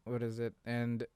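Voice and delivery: ordinary delivery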